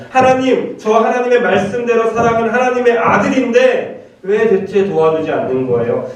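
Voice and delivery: high, pleading protest to God, easing down by the end; protesting in faith. Acted. Believer demanding why God won't help, high protest. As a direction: appeal upward as an aggrieved son. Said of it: "이렇게 투정하라는 얘기예요".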